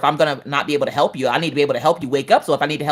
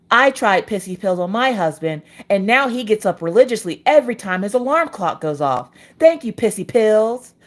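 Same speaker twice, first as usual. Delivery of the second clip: infomercial testimonial; 3 semitones higher than usual. Pretend.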